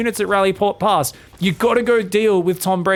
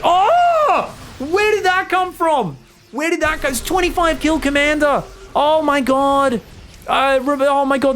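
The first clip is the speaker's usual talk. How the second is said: much higher, amazed shout; excited shout; 9 semitones higher, slower than usual. Real, not acted. Caster baffled by a massive Widow Mine hit, shouted much higher. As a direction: shriek out the surprise.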